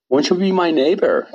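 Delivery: lightly sing-song, inviting question; Mister Rogers. Retold or imitated. TV host greeting a new viewer, light gentle imitation. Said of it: "asked Mister Roger".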